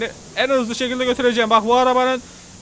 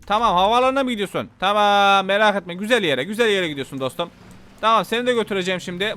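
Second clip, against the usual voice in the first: ordinary talk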